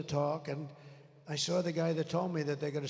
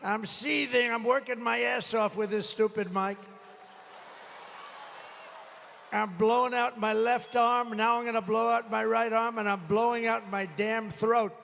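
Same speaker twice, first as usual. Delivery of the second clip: seething; 3 semitones higher than usual. Real, not acted. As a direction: vent the anger at the broken mic. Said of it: "I'm up here seething".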